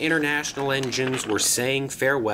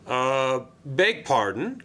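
mildly startled query; a touch of shocked politeness; gasped; slower than usual. A narrator's reading. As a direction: ask as if taken aback. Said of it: "gasped Sir Topham Hatt".

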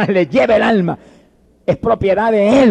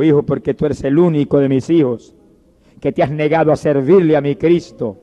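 grave dying mother; 3 semitones lower than usual. Acted. Dying mother explains to son.

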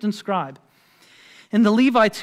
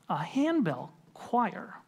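baffled echo; 7 dB quieter, slower than usual. Retold or imitated. Retold baffled reply to caller.

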